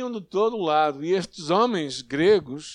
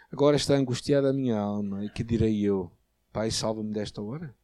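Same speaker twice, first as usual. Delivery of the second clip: scripture reading; 7 semitones lower than usual. Real, not acted. Reads Jesus' troubled words.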